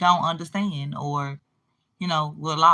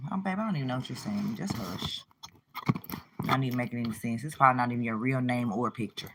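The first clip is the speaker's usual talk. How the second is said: dismissive brush-off; 6 semitones lower, 8 dB quieter, faster than usual. Real, not acted. Brushing off a commenter's question.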